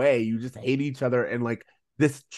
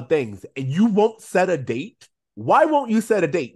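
Topanga cracking; 4 dB louder than usual. Pretend. Topanga finally cracks at Corey before her parents arrive, loud, building frustration. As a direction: let the resentment spill out, building to a loud demand. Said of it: "I would have loved for Topanga to crack".

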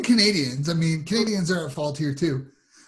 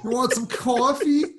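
higher, teasing mock Jersey accent; 4 semitones higher than usual. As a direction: tease with a laughing Jersey "cawfee". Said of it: "You got that Jersey accent".

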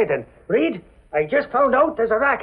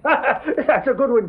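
slow chuckling through the words; laughing; 5 semitones higher, slower than usual. Acted. Laughing at Casey's joke.

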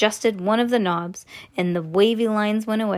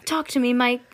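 mildly raised, worried mother's plea; pleading cry; 3 semitones higher than usual. Acted. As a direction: plead with a touch of alarm. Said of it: "cried Missus T V".

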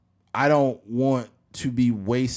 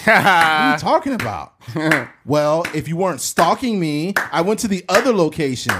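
heated argument; 4 semitones higher, 7 dB louder than usual. Acted. Boyfriend then girlfriend arguing.

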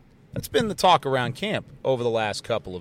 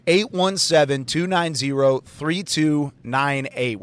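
slow, clear digits; repeat dictation; slower than usual. Shown as a demonstration. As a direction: repeat it for people at home. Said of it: "I'll say it one more time".

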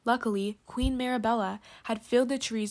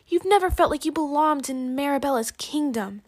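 scheming villain; 4 semitones higher, 6 dB louder than usual. A narrator's reading. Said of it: "Henna told Mariposa, trying to trick her".

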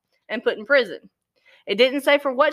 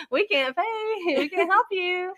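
pleading poor family; 8 semitones higher, 4 dB quieter, slower than usual. Retold or imitated. Voicing poor family to mother.

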